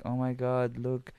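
put-on Lana's uncertain accent, drawn out slowly; put-on accent of unclear origin; mock foreign accent. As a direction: imitate her muddled foreign accent. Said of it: "don't even know what accent she has".

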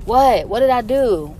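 lightly voiced, high mock-innocent man. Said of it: "he was like".

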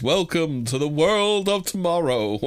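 slow, light announcer imitation; Futurama voice. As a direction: drawl it like a retro future announcer. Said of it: "the Futurama voice".

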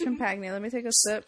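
while sipping a drink. Real, not acted. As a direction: mouth near the drink, sipping. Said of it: "Fuck, that was loud".

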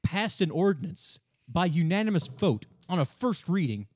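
indignant official citing the rulebook; mock indignation. Mock-indignant official complaint bit.

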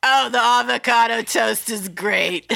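mock chirpy customer. Mocking trendy diner customer.

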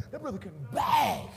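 loud cry of praise; hollering praise. Retold or imitated. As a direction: whoop it out in admiration. Admiring onlookers hollering.

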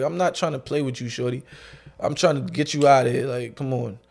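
low-key, unimpressed brush-off; stone-faced. Retold or imitated. Clerk wanting a customer gone, stone-faced. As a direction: keep it quiet and matter-of-fact. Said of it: "I'm being on my stone face".

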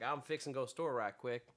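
casual Georgia-style accent; Southern accent. Shown as a demonstration. Prompting friend with an example, quiet Southern accent. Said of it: "like, the South where it's like".

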